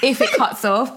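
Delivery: high, pleading squeal through laughter; mock exasperation. Caller to operator after being cut off, mock exasperated and laughing. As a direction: beg the operator, voice shooting right up. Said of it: "I was fuming".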